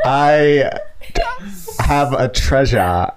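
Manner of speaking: slow Aussie attempt; careful slow Australian try; Australian accent. Shown as a demonstration. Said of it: "the Australian accent challenge".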